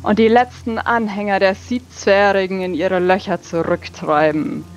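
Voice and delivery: hammy stage actor. Acted. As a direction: proclaim it with big theatrical sweep. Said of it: "sehr tulamidisch, theatralisch".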